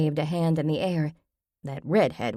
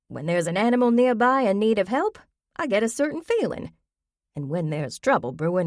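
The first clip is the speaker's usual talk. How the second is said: a lightly raised, earnest granny voice; folksy old grandmother; 2 semitones higher, 3 dB louder than usual. Acted. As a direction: swear by your big toe like a country granny. Grammy explains her hunches.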